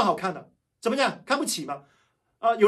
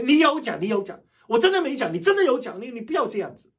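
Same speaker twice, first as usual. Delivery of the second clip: louder, insistent back-and-forth accusation; mock quarrel; 3 semitones higher, 5 dB louder than usual. Preacher acting out a petty quarrel, loudly insistent. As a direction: act out a petty he-said-she-said squabble. Acted quarrel over what was said.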